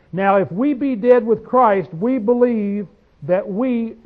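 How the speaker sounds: slow, deliberate reading of the verse; measured scripture reading. Acted. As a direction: read it out word by word, weighty. Reading scripture slowly aloud.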